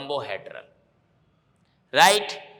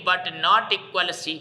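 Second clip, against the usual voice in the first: slow, deliberate spelling out of the rule; slow dictation; much slower than usual. Shown as a demonstration. Teacher telling students what to write, slowly. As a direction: dictate it word by word. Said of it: "गोनल में क्या करना है भैया".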